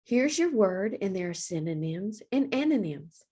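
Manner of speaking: usual speaking voice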